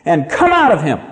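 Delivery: firm order with weight on "come"; stern command. Acted. Jesus commanding the evil spirit to leave, stern. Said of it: "Jesus said sternly".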